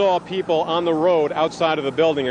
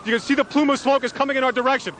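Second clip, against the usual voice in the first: urgent alarmed; 6 semitones higher than usual. Real, not acted. Reporter as tower collapses nearby.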